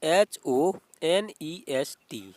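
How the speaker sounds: teacher slowly dictating the spelling "H O N E S T". Shown as a demonstration. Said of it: "B में क्या दिया हुआ है".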